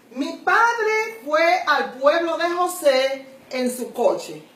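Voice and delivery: slow, deliberate reading of the sentence; slow example read. Shown as a demonstration. Teacher reading an example sentence slowly to students. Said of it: "Mira este ejemplo".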